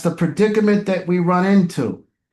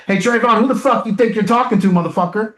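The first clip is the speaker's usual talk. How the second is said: imagined angry confrontation; 3 semitones higher, faster than usual. Pretend. Coach imagines confronting the lying teen, mock angry. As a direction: act out laying into him. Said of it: "Now imagine if I would've said".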